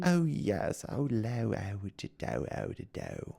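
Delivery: fading into a breathy, trailing imitation of proper British; lightly hammed-up upper-class British accent; mock posh British accent. Mocking an ex-friend's proper British wife, fading posh British accent. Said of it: "was proper British".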